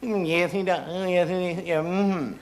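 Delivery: a hint of a prim lady gossiping; gossiping women. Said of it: "two women talking to one another".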